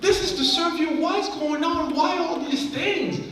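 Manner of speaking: high, hushed plea to God; anguished prayer. Retold or imitated. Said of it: "I'm like".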